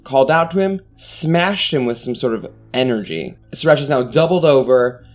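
dramatic game master narration; scene narration. Acted. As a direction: set the scene with menace.

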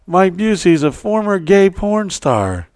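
high, slow calling-out voice; imitated yell. Friend announcing to gathered news crews, imitated yell. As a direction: yell it out for a crowd, drawing it out. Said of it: "And he yells out".

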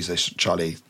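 a touch of cold, closed-off refusal; flat and cold. Acted. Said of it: "She says so flatly".

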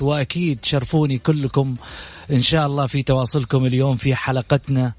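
showy announcer build-up over music; grand TV show host introduction; TV presenter intro. Acted. Host's dramatic guest introduction over music.

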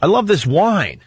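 put-on high, sappy baby talk, slow at the end; teasing a caller's joke with sugary high voice; mock lovey-dovey. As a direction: coo it like a smitten boyfriend. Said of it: "He, he writes, uh, Jill said".

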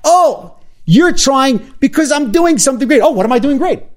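high, bright mock amazement; delighted self-talk. Guest acting out her own surprised inner voice to the host, high and excited. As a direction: gasp at your own good news. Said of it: "I'm like".

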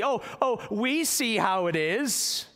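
a touch of mock resignation; sarcastic grumbling. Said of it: "They began to say sarcastically".

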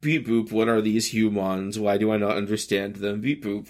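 mock robot, beep boop; flat hammy robot impression. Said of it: "always just like".

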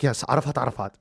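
falling, settled answer; plainly assured, acted-out reply; matter-of-fact confirmation. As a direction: confirm the name as nothing unusual. Lawyer's name confirmed to him.

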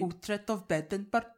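slow mock Scandinavian accent; Uhtred. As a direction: put on a slow, measured Nordic accent. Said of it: "Just speak like Uhtred from Uhtred".

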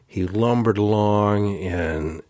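slow, drawn-out disdain, lightly replayed; a touch of slow distaste; retold disdain. Recounting to a facilitator how distasteful it was, mild disdain. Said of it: "you could hear the disdain".

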